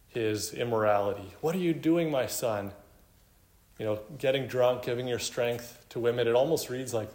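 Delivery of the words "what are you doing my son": lightly acted desperate mother, pitched up at first; desperate motherly plea. Mother calling her son from immorality, mildly desperate. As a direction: plead a little, high then falling. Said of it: "his mom is desperately calling him".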